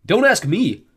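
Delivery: mocking dismissal; bully taunting the girl; teasing. A narrator's reading. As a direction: shrug her off, sneering. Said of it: "he teased".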